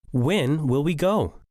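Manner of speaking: slow clarifying question leaning on "When"; rising intonation. Shown as a demonstration. Speaker asking someone to clarify, questioning intonation. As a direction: ask slowly for clarification, stretching "When". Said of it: "end with rising intonation when the speaker asks for clarification".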